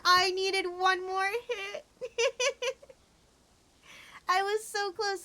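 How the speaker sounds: laughing frustration. Real, not acted.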